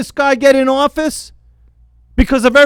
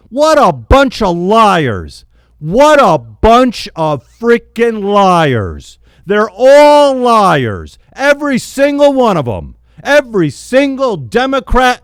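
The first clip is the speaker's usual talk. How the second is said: angry; slower than usual. Real, not acted. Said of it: "listening to me yell".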